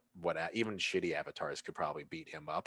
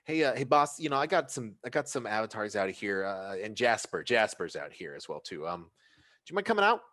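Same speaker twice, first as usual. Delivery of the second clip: bouncer calling boss; 4 semitones higher, 4 dB louder, faster than usual. Acted.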